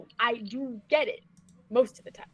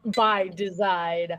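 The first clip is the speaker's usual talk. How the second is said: mock serious; 4 semitones lower, 4 dB louder, much slower than usual. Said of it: "I'm kidding".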